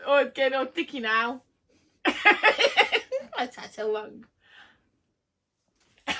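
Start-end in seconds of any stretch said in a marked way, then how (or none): 2.0-4.2 laughing. Real, not acted. Throwing game.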